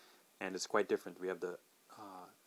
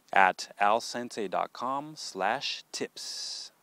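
slow clear; 5 dB louder, much slower than usual. Acted. Spelling out course address.

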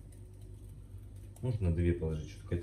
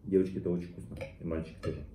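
chewing while talking; faster than usual. Real, not acted. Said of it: "Видите?".

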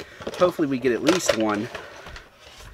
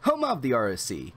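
brisk, polished promo read; scripted ad-read delivery, evenly projected; sponsor read; 3 semitones higher than usual. Acted. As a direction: read it like a rehearsed channel sponsor spot. Reads the sponsor intro.

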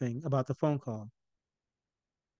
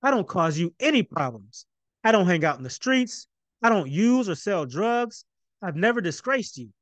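growing confident protest; 6 semitones higher than usual. Acted. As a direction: push back harder each line. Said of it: "his voice found more bass and more volume".

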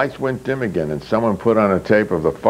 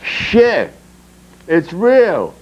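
higher and louder disgusted cry; hissed outburst; 7 semitones higher, 4 dB louder, much slower than usual. Acted. Yuri hit by the shit sculpture, disgusted outcry. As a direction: spit it out in disgust.

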